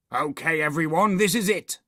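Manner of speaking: loud, rising hype; rally the room at high pitch; excited announcing boy. A narrator's reading. Boy starting film for friends, excited announcement.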